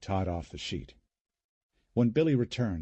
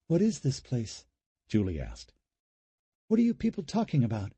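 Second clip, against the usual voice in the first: high, fast, rattled questions; alarmed disbelief; 4 semitones higher than usual. Acted. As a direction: demand to know what's going on. Julie confused, demanding answers.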